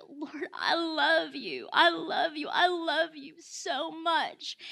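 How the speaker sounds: slow, tearful "I love you"; tearful worship. Retold or imitated. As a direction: let the words well up, choked with tears. Retold sudden overflow of worship.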